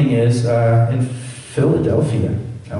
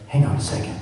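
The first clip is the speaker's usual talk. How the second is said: whispered aside; 4 dB quieter than usual. Retold or imitated. Quietly stalling the stranger.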